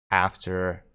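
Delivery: ordinary delivery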